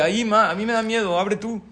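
put-on high, loud frightened little boy; scared child. Child pleads with mother to open the wardrobe, frightened and high. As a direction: beg your mom to open it, scared.

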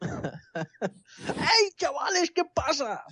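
high, laughing squeaky greeting. Pretend. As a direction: do the squeaky voice on request. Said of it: "Vuelve a hacerlo con esa voz".

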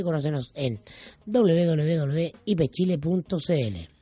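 confident announcer pitch; radio ad read. Acted. Host reads the institute commercial, confident announcer read.

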